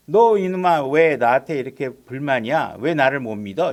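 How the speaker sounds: loud, acted scolding of a doubter; mock rebuke. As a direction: imitate a stern telling-off, hitting the first words hard. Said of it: "이렇게 책망하신 것도 아니고".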